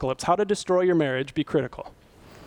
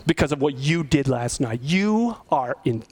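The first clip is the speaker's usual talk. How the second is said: mock angry accusation; 6 semitones lower than usual. Shown as a demonstration. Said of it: "than saying".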